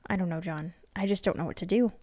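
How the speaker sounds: mildly shaken and unsure; wife admits to her husband she is lost, mildly shaky. Acted. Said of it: "her voice shaky".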